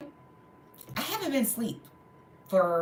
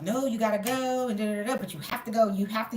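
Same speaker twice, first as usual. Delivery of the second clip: lightly mimicked insistent staffer, higher pitch; 3 semitones higher than usual. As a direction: imitate staff brushing off an objection.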